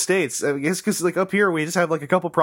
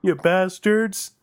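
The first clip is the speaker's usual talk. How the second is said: very slow, raised mock insult; mock aggro Canadian; 4 semitones higher, much slower than usual. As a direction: draw the insult out in pretend outrage. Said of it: "That's how aggro Canadians get".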